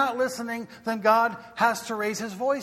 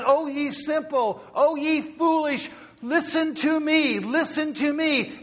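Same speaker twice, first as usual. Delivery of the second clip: lightly raised, pleading call; wisdom calling out; 6 semitones higher than usual. Acted. Wisdom calling the simple in the marketplace, earnest. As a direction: call out to the foolish crowd. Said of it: "wisdom speaks and says".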